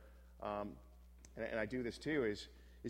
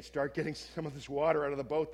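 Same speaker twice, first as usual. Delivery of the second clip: shouting fishermen; 4 semitones higher, 6 dB louder than usual. Acted. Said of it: "they shout".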